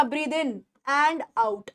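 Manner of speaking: slow, drawn-out breathe in and out; very slow model phrase. Shown as a demonstration. Teacher showing students how to say it, very slow. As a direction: draw out each word slowly. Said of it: "teacher models breathing phrase".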